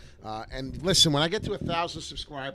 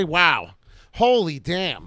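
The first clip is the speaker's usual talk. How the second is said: wow reaction; 3 semitones higher, 9 dB louder, much slower than usual. Pretend. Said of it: "Can somebody say".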